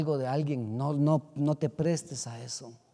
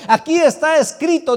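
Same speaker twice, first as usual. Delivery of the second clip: louder, higher ringing declaration; loud proclamation; 11 semitones higher, 12 dB louder than usual. Acted. Preacher proclaiming scripture to the church, loud. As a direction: announce it with full force. Repeats phrase, first loud.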